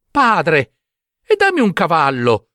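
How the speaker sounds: eager cried-out request; calling out. Acted. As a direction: call to the father insistently. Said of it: "gridò Giambabbeo".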